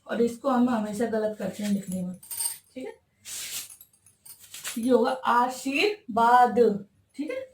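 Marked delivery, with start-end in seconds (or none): 4.8-6.9 आशीर्वाद said slowly, आ-शीर्-वाद with a clear र्व; slow correct form. Shown as a demonstration. Teacher dictating the correct word to students, slow careful form. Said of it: "आशीर्वाद का होगा".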